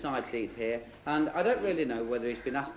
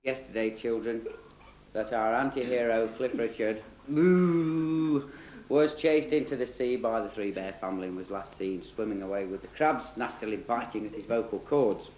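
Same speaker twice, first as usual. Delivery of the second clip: put-on children's storyteller. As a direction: narrate it like a tongue-in-cheek bedtime tale.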